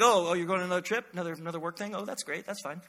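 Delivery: mock sweetness hiding resentment; needling spouse feigning it's all fine; passive-aggressive. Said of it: "the passive-aggressive, like".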